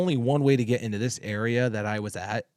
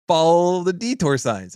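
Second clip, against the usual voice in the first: curt brush-off; 6 semitones higher, 4 dB louder than usual. Retold or imitated. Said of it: "I went into asshole mode".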